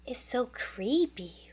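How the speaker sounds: soft and uneasy, half whispered; a frightened cub whispering among bones; nervous whisper. A narrator's reading. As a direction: hush it like something is watching. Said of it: "whispered Nala nervously".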